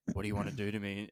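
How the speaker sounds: low, soft come-on; imitated intimate murmur. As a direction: say it softly, as if into someone's ear. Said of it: "whispering in their ear".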